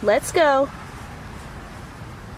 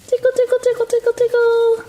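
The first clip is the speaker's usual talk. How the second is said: playful tickling; 10 semitones higher, 4 dB louder, much faster than usual. Acted. Mom tickles pup in bath.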